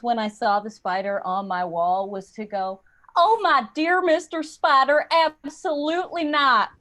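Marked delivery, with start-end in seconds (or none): 3.1-6.7 higher Southern belle, drawn-out refusal; Southern accent. Acted. Woman warning off a spider on her wall, Southern accent. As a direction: intimidate in a genteel Southern white woman's accent. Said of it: "do that accent to intimidate the spider".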